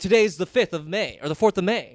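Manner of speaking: retold incredulous protest; disbelief. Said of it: "I was in disbelief".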